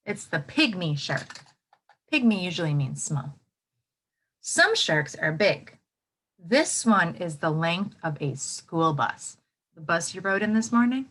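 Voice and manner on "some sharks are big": big voice. Shown as a demonstration.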